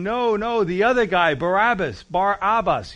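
loud insistent crowd cry; mock crowd shout. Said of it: "they're all saying".

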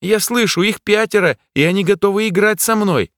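put-on high, eerie child voice; childlike voice. A narrator's reading. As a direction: speak like a possessed boy. Possessed jester, childlike.

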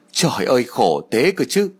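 slow, drawn-out fake wail; mock crying lament. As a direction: put on a tearful lament for the neighbours. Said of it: "Bà Chiêu khóc lóc rồi nói". (giả vờ than khóc, kéo dài chậm rãi)

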